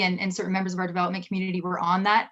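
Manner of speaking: rattling it off quickly like an auctioneer; speaking fast. Real, not acted. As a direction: hurry through to save time. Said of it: "now I'm speaking like an auctioneer".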